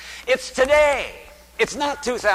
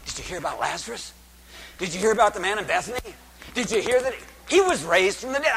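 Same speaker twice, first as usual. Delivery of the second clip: crowd gossip; much faster than usual. Acted. Preacher voicing excited crowd gossip.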